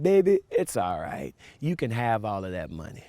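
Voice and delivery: soft tender voice. Retold or imitated. Grandmother forgives her grandson on the phone, soft and tender. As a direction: soothe him like a forgiving grandma. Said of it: "in the soft, tender voice".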